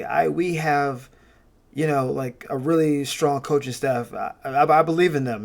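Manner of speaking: lightly voiced head coach, flat and stumbling; uneven McDaniel impression. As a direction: mimic a hesitant coach who trails off. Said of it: "he sounds so, like, uneven".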